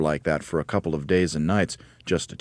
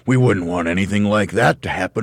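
loud, raised, rising to a high OH DEAR; mock horror; 5 semitones higher, 8 dB louder than usual. A narrator's reading. Husband echoing wife's fear of flying off, loud mock horror. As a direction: make a show of being appalled.

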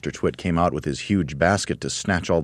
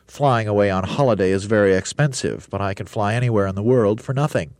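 grand roly-poly bird; 4 semitones higher, 3 dB louder than usual. Acted. Roly-poly bird boasting to the monkeys, grandly. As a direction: puff up like a vain bird.

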